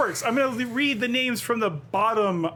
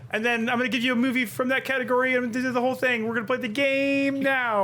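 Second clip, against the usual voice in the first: fast, lightly hyped barker pitch; a hint of a fairground barker selling the game; carnival barker; 4 semitones higher than usual. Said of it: "You're doing a whole carnival barker thing".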